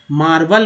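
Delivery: मार्बल ending in a neutral "vul"; second syllable of मार्बल with a schwa; correct reading. Shown as a demonstration. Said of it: "ई जो है आ के रूप में".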